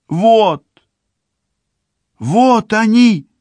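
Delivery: high, loud startled cry; sudden cry. A narrator's reading. Girl spots her mother behind the fence, crying out high and loud. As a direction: cry out as you spot them. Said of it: "Вдруг вскрикивает Циби".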